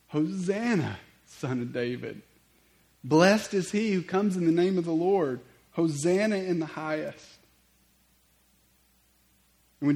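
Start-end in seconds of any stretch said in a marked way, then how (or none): 0.1-7.4 loud, raised-pitch acclamation; crowd's shout. Acted. Crowds hail Jesus entering Jerusalem, loud proclaiming shout. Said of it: "those that followed shouted".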